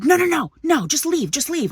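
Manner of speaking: high-pitched imitation of a flustered man; mock panicked protest. Man begs couple to just leave, mock protesting. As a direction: mimic him hastily backing down. Man backing down, retold in quarrel.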